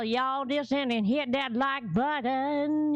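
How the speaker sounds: slow, drawn-out Jamaican lilt; Jamaican accent. Retold or imitated. Imitating a Jamaican accent for viewers. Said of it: "She did the Jamaica version".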